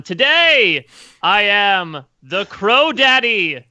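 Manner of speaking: grand, slow declaration; a hammed-up victory yell to everyone; proclaiming yell. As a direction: bellow it to the crowd, drawn out. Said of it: "I will yell to everyone".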